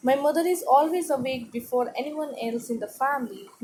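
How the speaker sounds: slow, clear read-aloud for a class. Acted. Teacher reading the paragraph to students, slow and clear. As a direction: read each word slowly to pupils. Reads text slowly.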